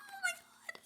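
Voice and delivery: high, breathless whisper; awed whisper. Real, not acted. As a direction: whisper it in disbelief. Overwhelmed whisper.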